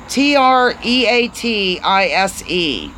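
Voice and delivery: slow, deliberate letter-by-letter spelling; careful spelling; spelled out slowly. Shown as a demonstration. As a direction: spell it out one letter at a time. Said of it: "Tell me how to say it".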